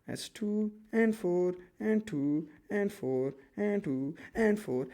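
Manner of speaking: ordinary talk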